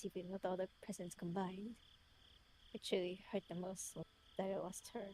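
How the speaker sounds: put-on measured British-accented letter reading; his British voice. Reading his letter aloud in character, British voice. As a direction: read it as a self-reproaching British man. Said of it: "Let me read it in his voice".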